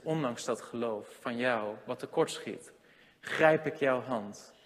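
soft, slow reassurance; tender Jesus voice. Acted. Jesus reassures sinking believer, soft and slow. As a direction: speak it gently as Jesus reaching out.

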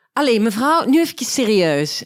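stern officer. Retold or imitated. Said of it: "Zij zo".

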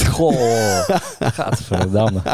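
slow, drawn-out disgusted gadverdamme; revolted, stretching the word out. Real, not acted. Imagining lobster in the bath.

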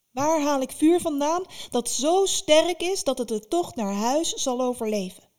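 put-on anxious girl building to a cry; rising distress. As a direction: repeat the question with growing panic. Vasilisa repeats, more upset.

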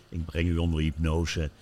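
slow, lulling hypnotist patter. Retold or imitated. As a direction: draw the last words out slowly. Speelt de hypnotiseur na. (langzame hypnotiseursstem)

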